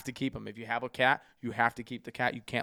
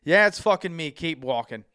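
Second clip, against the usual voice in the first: cocky wrestler brush-off; 5 semitones higher, 9 dB louder than usual. Retold or imitated. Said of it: "he goes".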